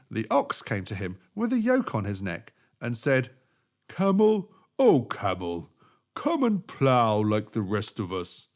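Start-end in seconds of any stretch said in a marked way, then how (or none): 3.9-8.5 slow, heavy ox voice. Acted. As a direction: plod through it like a tired ox.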